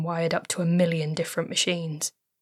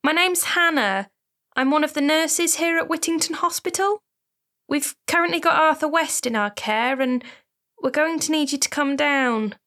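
much higher, careful professional woman's voice; gentle nurse; 6 semitones higher than usual. Acted. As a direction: break bad news kindly but formally. Nurse delivers bad news.

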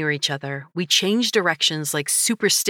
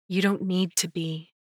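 gentler. A narrator's reading. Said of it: "my voice gentler now".

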